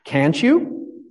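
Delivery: mild pitying Queen; lightly voiced pity, as if for a slow child. Pastor voicing the Queen to Alice, lightly pitying. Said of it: "in a pitying tone".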